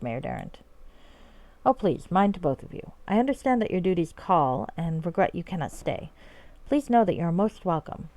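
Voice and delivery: formal, courtly role-play delivery; in-character reading. Acted. Knight and grateful mayor trade thanks, courtly in-character reading. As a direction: read it as measured fantasy dialogue. Reads game dialogue in character.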